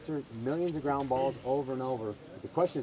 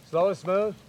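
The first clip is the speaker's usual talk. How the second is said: call and response; 3 semitones higher than usual. Shown as a demonstration. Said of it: "Say it with me".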